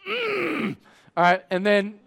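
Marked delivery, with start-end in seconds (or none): 0.1-0.8 mock strain. Gym guy straining in pain.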